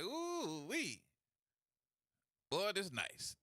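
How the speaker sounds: a light country drawl, admiring the truck; lightly voiced Southern country admiration. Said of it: "I did in my country voice".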